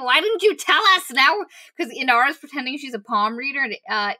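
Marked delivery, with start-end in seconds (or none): 0.0-1.1 pitched much higher, a mildly indignant protest; mock surprise. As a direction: lightly play the shocked friends. Friends react to Kissen's bluff.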